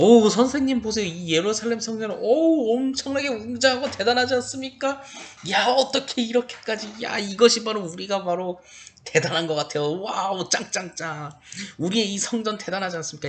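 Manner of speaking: high, emotional, awestruck, gushing admiring tone. The speaker retells a disciple's words to Jesus, acting them out with emotion. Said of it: "좀 감정을 섞어서 이렇게 말하면".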